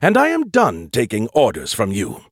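defiant. Acted. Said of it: "he insisted, undaunted".

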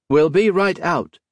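calls out loudly through the door; shouting. A narrator's reading. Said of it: "Modo shouted".

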